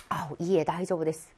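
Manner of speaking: mild, kindly demurral; gentle polite refusal. Shown as a demonstration. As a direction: decline kindly and modestly. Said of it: "다이조부 데스가 조금 약간 착하네요".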